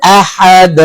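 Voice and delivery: আহাদ with a bounced final d; qalqalah on dal. Shown as a demonstration. Teacher repeats the dal example for students, bouncing আহাদ. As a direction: echo the দ at the end of আহাদ. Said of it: "দালের উদাহরণ".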